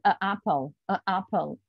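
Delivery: "a apple" said with a clumsy break between the two vowels; awkward a apple. Shown as a demonstration. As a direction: stumble over "a apple" to show how hard it is. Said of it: "You can try and say it".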